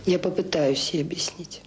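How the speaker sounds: slow, breathless whisper, barely voiced; whispered promise. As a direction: she murmurs it to herself, slowly, without voice. Director promises after tense talk.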